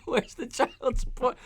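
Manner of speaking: laughing through the line, slow and soft. Real, not acted. Streamer reading a chat joke aloud, laughing through it. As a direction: read the joke while cracking up.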